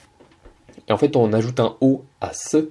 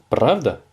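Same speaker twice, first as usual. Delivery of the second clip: "Pravda" with the pitch lifted as a question; 2 semitones higher than usual. Shown as a demonstration. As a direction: ask "Pravda" on its own, like "really?". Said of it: "avec un air interrogatif".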